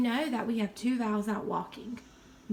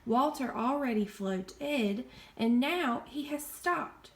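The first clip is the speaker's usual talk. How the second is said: slow, clear teaching. Shown as a demonstration. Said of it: "ed tell us".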